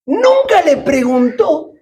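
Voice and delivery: nunca stretched, slow; stress on nunca. Shown as a demonstration. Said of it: "emphasis on nunca".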